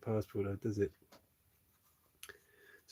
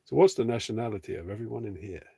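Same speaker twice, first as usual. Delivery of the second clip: louder, projecting to the chat; speaking up; 8 dB louder than usual. Real, not acted. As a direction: repeat it louder, clearly projected. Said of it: "speak up a little bit".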